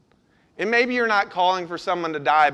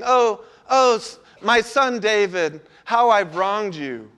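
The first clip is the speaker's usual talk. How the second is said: higher, mock-tearful lament; imitated weeping; 3 semitones higher, 3 dB louder than usual. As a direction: act out a weeping apology, hammed up a little. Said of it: "He starts weeping".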